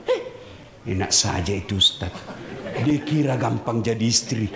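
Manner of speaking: low, dismissive muttered complaint; imitating grumbling wife. Wife grumbling at home about the Ustaz, low scoff. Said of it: "pasti dia bilang".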